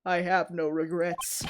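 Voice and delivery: a hint of a tired old bailiff; old man voice. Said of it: "Should I still keep his old man voice".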